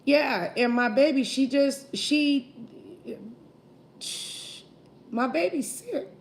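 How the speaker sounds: crying. Real, not acted. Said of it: "I didn't mean to cry".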